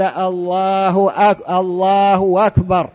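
"الله أكبر" said slowly and carefully; slow adhan demo. Shown as a demonstration. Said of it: "ولو قال".

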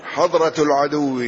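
first of three vowellings, حضرة with short a after ح; fatha on the haa. Shown as a demonstration. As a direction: say حضرة as hadra, with "a". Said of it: "الحاء مثلثة". (حضرة بفتح الحاء)

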